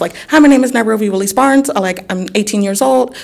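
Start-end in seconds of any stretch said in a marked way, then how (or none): 0.3-1.7 very fast, rushed, rattled-off speed-reading. Speaker showing how they read many pages in little time, reading very fast. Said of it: "I would be reading very fast like that".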